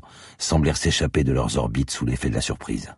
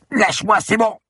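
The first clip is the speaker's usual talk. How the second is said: very high-pitched squawked protest; high strangled squeal; 5 dB louder than usual. A narrator's reading. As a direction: squeal as if held by the collar. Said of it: "obtins en retour un gargouillis aigu". (protestation suraiguë, comme étranglée)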